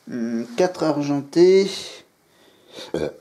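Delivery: words pushed out around a burp; talking while burping. Real, not acted. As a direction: say it through a rising burp. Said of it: "j'ai roté".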